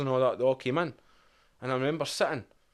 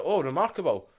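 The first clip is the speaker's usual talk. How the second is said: posh officer; 6 semitones higher than usual. Retold or imitated.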